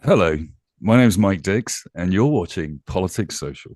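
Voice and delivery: slow, measured airline captain announcement; slow, calm cockpit announcement; pilot voice. Shown as a demonstration. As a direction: announce it like the captain over the cabin. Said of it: "Mike's got the pilot voice".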